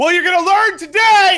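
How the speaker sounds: shrill, very high, full-blast scream. Speaker retells a badminton story, quoting a huge man, retelling a scream. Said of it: "screamed at the top of his lungs".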